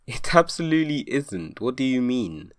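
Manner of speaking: high disbelieving retort; incredulous. Real, not acted. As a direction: sound baffled and incredulous.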